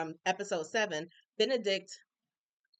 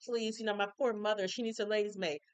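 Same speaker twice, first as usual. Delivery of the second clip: laid on thick, a touch sugary; butter up the judge; pleading; 2 semitones higher than usual. Retold or imitated. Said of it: "pouring her real thick".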